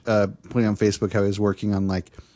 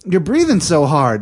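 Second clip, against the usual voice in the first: put-on Texan accent; 6 semitones higher than usual. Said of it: "And she's like".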